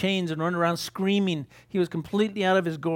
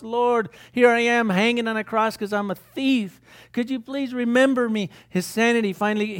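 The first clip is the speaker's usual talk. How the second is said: a higher, lightly voiced thief on the cross begging God; pleading thief; 4 semitones higher than usual. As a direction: plead for help, rising as panic builds.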